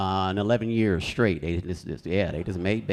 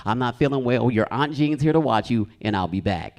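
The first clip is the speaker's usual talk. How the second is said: imitating mom. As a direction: play mom casually leaving the kids. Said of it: "She would just walk in the room like".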